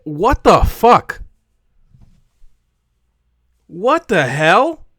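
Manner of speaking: stern. Acted. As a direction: lay it down slowly like a scolding. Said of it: "let me sternly say".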